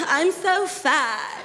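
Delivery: slow, whiny I'm so fat; mock whiny friend. Friend fishing for compliments, slow and whiny. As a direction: drag it out fishing for praise. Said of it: "I said".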